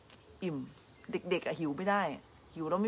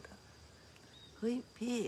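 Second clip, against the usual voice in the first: very slow whisper; whispered thought; 6 semitones higher, 11 dB quieter, much slower than usual. Retold or imitated. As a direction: breathe it as a private thought. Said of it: "คิดในใจ". (กระซิบคิดในใจ)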